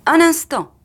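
husband calls out to stop the car; sudden call. A narrator's reading. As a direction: cut in suddenly to halt the car. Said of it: "dit alors monsieur Foster".

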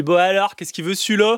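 put-on light ch'ti waiter accent; a gruff Arras waiter, lightly played; northern French accent. Un serveur d'Arras qui accueille le client, accent du Nord léger. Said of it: "quand le serveur te dit".

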